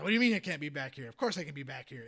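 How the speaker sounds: a retold indignant protest at security; grumpy old man. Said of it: "grumpy old man".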